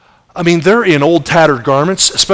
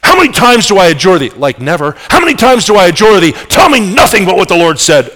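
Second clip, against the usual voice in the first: louder, sharper exasperated demand; indignant king; 3 semitones higher, 3 dB louder than usual. Acted. King confronting prophet, exasperated. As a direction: demand it impatiently. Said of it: "he whips around and says".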